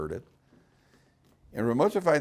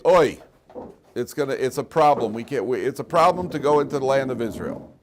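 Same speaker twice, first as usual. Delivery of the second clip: whiny complaint; 3 semitones higher, 7 dB louder than usual. Retold or imitated. Spies discouraging, acted complaint.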